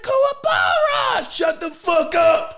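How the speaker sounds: slow, very high, loud yell; angry mock shout. Yusuke fed up with Kuwabara, slow high angry shout. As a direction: yell at him to shut up. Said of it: "He was like".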